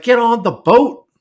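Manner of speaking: high, loud, drawn-out yell; retold yell. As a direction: re-enact an exasperated shout at the screen. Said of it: "I yelled at the theater".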